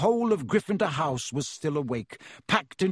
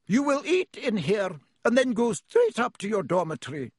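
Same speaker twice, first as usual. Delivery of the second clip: higher-pitched teacher laying down orders; stern, raised-pitch command; 7 semitones higher than usual. A narrator's reading. Teacher orders two students to eat here, stern. McGonagall character giving orders to boys.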